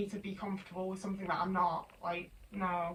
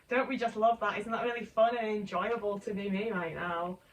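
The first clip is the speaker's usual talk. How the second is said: sarcastic. Real, not acted. Sarcasm about having to wait.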